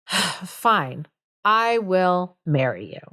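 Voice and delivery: mock heavy sigh, then reluctant consent; grudging surrender. Bertram finally agreeing to marry, mock reluctance. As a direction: sigh and give in, imitating a sulky groom. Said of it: "so finally, Bertram is like".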